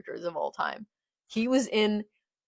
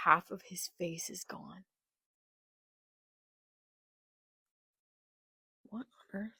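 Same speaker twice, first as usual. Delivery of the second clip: stunned; 7 dB quieter than usual. Real, not acted. Stunned at the injury.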